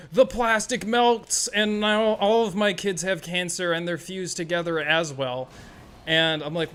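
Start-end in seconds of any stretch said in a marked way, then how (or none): 0.1-5.5 overdone outraged reviewer; mock reviewer complaint. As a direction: parody a hysterical one-star review. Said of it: "And they're like".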